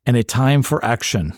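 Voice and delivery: lightly accented movie quote, badly faked French; half-hearted French-accented film line; attempted French accent. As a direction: try a French accent and not quite land it. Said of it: "I guess I am doing the accent".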